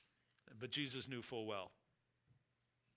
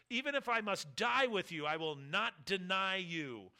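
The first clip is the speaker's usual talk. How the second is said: higher, louder insistent vow; fervent protest; 4 semitones higher, 5 dB louder than usual. Acted. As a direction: swear it with everything you've got. Peter protests he'll never deny.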